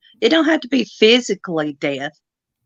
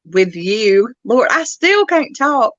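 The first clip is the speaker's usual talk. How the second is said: slow, stumbling tongue-tied words; 4 dB louder than usual. Real, not acted. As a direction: trip over each word. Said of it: "It's like my tongue's tongue tied".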